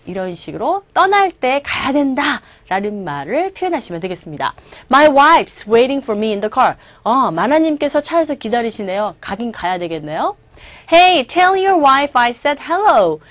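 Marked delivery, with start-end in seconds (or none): 4.9-6.7 slow model reading. Shown as a demonstration. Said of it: "teacher reads model line". 10.9-13.2 slow model reading. Shown as a demonstration. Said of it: "teacher reads model line".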